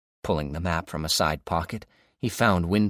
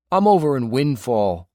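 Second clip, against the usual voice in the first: Dave on the radio; 6 semitones higher, 9 dB louder than usual. A narrator's reading. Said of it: "Dave said".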